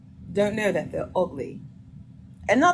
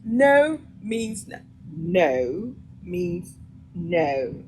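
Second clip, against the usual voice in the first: emphatic refusal; much slower than usual. Acted. Woman refusing a pushy man, emphatic. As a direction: lay down each word firmly and slowly.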